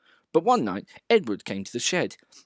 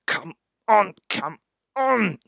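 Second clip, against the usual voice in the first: puffed; 8 semitones higher, slower than usual. A narrator's reading. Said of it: "he puffed".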